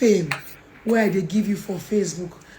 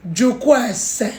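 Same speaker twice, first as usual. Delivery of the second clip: calm slow advice; 2 semitones higher, slower than usual. Shown as a demonstration. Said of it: "No be by shouting".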